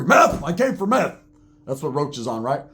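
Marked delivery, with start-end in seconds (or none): 0.0-1.2 blurted answer. Retold or imitated. Quoting Roach's blurted answer to biker.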